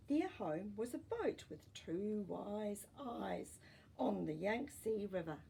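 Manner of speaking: gentle, even storybook reading; story narration. A narrator's reading. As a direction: read it like a bedtime story for kids. Reading a picture book aloud.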